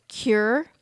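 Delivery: "Cure" tried out with a questioning rise; trying a pronunciation. Shown as a demonstration. Vlogger guessing at a German word, "Cure" said as English "kyur". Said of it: "I think it's pronounced cure".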